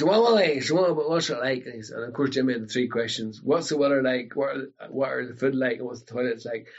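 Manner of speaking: Jimmy asking. Retold or imitated. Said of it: "Jimmy says".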